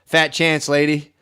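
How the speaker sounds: mock defiance. Kid refusing parent's moon hopes, mock-defiant. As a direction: flatly refuse like a stubborn kid. Voices the child defying a hopeful parent.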